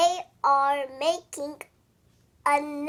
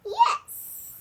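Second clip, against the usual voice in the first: high squeaky yes; 4 dB louder than usual. Acted. Piggie answers brightly.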